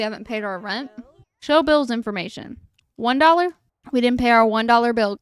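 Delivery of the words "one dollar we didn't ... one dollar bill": can't believe the bill is this small; disbelief. Real, not acted. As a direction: gamer stunned by a one dollar fine. Baffled by a tiny rent bill.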